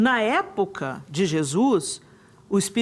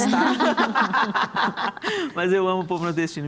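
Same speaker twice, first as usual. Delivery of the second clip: laughing. Real, not acted.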